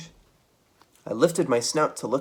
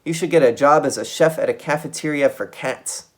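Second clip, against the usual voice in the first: angry cry; 6 semitones higher, 8 dB louder than usual. A narrator's reading. Geronimo snapping at Trap over bad clams, loud and angry. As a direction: spit out the grr like a furious mouse. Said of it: "I cried".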